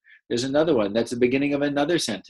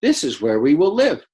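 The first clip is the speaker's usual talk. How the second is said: excited line; 3 semitones higher, 6 dB louder than usual. Shown as a demonstration. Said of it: "this part is in those quotes".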